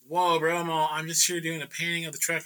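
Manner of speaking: calm down an angry man, pleading innocence; mildly alarmed protest; placating. Retold or imitated.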